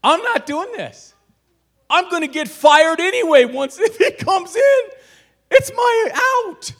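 high, loud fed-up shout; frustrated outburst. Retold or imitated. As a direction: blow up, done with it all. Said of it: "I just got so frustrated".

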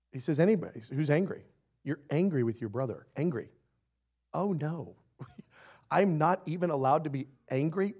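ordinary delivery

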